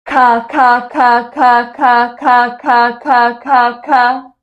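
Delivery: crisp over-articulated ka syllables in an even beat; clear ka drill. Shown as a demonstration.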